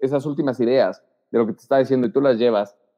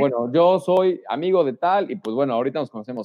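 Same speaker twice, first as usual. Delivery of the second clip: much higher, lively hello to the whole room; cheerful group greeting; 4 semitones higher than usual. Shown as a demonstration. Newcomer arriving at the party greets everyone together, high and lively. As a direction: breeze in and greet everyone at once. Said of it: "Es como".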